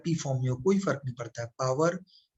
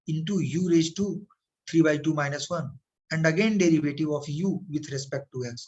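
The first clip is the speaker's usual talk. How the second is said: very slow, word by word, as if writing it down; slow dictation; much slower than usual. Shown as a demonstration. Teacher dictating to students while writing, very slow. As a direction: spell it out slowly for students copying.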